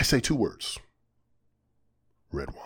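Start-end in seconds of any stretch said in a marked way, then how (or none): 2.3-2.6 low and soft, drawing out red wine. Shown as a demonstration. Podcast host tells listeners how to say it, low hushed voice. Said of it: "you gotta say it like that".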